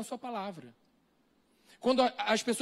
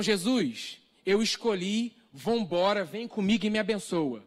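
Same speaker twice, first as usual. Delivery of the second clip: presumptuous telling tone; slower than usual. Shown as a demonstration. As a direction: tell Jesus what you chose and demand his blessing. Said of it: "E não".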